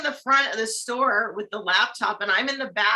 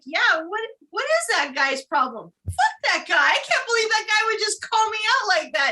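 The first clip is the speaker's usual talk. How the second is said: mock angry rant; 7 semitones higher than usual. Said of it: "he was getting all pissed".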